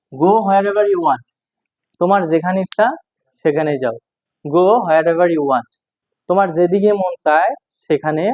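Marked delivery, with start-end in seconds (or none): 0.1-1.3 slow dictation. Shown as a demonstration. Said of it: "teacher repeats phrase slowly". 4.4-5.7 slow dictation. Shown as a demonstration. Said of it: "teacher repeats phrase slowly".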